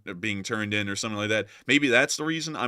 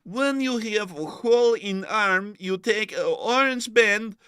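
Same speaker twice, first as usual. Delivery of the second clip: mock manual reader; 8 semitones higher than usual. Mocking the North Korean first aid manual in a higher put-on voice. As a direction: read it like a silly instruction booklet.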